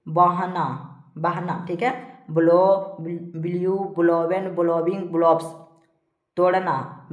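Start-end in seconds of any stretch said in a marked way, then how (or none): 2.3-5.4 evenly spaced word-by-word list; steady classroom drill; verb drill recitation. Shown as a demonstration. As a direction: recite each form separately for pupils to memorise. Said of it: "इस प्रकार से सारा को पढ़ते जाना है".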